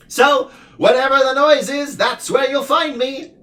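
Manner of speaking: squeaky-high noisy little being; din creature voice. A narrator's reading. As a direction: din puzzled why Milo dislikes noise. Din's voice.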